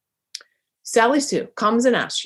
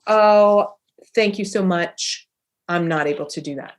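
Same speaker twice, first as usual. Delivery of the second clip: gracious thanks. Shown as a demonstration. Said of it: "You could also just say".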